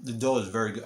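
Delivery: talking through a mouthful; chewing while speaking; mouth full. Real, not acted. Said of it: "I'm talking with my mouth full".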